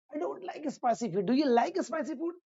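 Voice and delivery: slow, clearly spaced classroom English; slow example sentence. Shown as a demonstration. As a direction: spell it out slowly for learners. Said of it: "example sentences for students".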